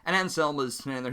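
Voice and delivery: ordinary talk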